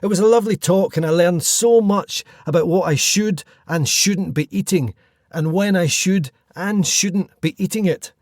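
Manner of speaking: bright, even host read over music; podcast intro read. Acted. Host introducing the episode to listeners, polished read. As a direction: welcome listeners and set up the guest.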